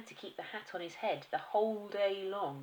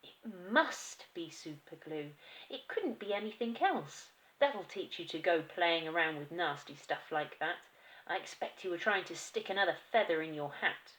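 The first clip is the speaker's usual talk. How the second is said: loud nagging wife; the wife lecturing her husband; scolding wife; 4 dB louder than usual. Acted. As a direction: tell him off smugly. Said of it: "said to him".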